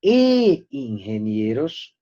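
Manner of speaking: e ingenieros with a long, stretched E; slow teacherly EEE, then ingenieros; emphasized conjunction E. Shown as a demonstration. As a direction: hold the E before ingenieros, slowly. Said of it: "note la inversión".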